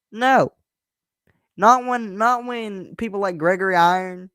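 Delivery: a passionate no rising in pitch; emphatic no. Real, not acted. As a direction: refuse it with fire. Passionate refusal.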